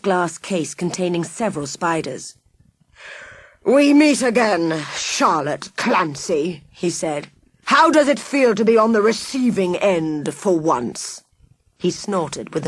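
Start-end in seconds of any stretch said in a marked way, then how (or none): 3.6-11.2 slow, relishing villain voice; lightly voiced gloating villain. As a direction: savour every word like a smug mastermind.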